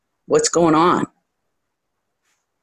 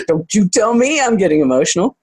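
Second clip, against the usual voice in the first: mock indignation; 4 semitones higher than usual. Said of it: "I'm like".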